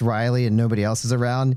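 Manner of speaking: normal talking voice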